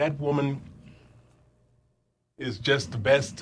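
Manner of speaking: moved, emotional, slow delivery. Talking about a colleague you treasure, getting emotional. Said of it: "Excuse me, getting emotional".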